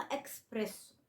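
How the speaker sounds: "إكسبريسو" said with a k sound, eks-PRESS-o; common mispronunciation. Shown as a demonstration. Teacher quoting how Americans mispronounce it, "إكسبريسو" with an added k. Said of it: "أنا بسمع ناس وأجانب أمريكانز بينطقوها".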